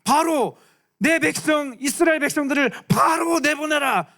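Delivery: high, slow commanding Moses; mock-stern prophet demand. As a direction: proclaim it to Pharaoh. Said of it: "모세가 바로 앞에 가서 뭐라고 얘기했냐면".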